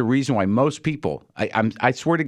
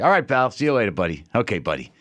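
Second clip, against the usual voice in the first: distancing New York buddy; 2 semitones lower than usual. Retold or imitated. Imitating a New Yorker ending a weird elevator moment, distancing. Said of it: "that weird sort of distancing buddy".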